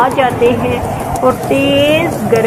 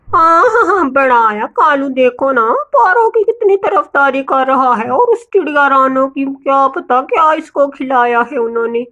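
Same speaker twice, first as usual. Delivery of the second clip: lightly hammed spiteful mockery; sneering jealous bird; 2 semitones higher than usual. Gori mocks Kalu for siding with Paro, sneering.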